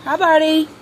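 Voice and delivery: high sing-song greeting to a bird; pet talk. Real, not acted. Greeting a rooster in a high cooing voice. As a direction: coo at the chicken like a pet. Talking to a chicken.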